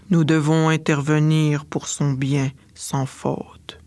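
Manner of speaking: a mage addressing the dolphin fairy, grave and low; old mage. Acted.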